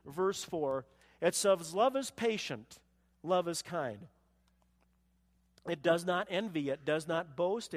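ordinary talk, nothing marked

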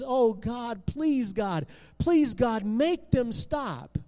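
beg, repeating the plea; desperate pleading. Acted. Benjamin praying with head in hands, desperate pleading.

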